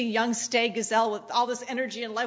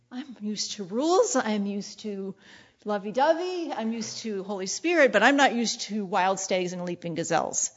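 mock shocked bride; 2 semitones lower than usual. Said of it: "she's just shocked".

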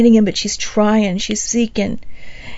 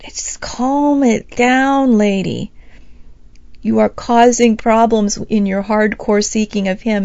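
stern watchman; 4 dB louder, slower than usual. Retold or imitated. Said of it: "these watchmen are going".

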